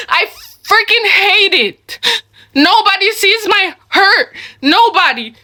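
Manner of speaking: tearful, choked up; fighting back real tears as you say it; crying. Real, not acted. Venting about family, crying.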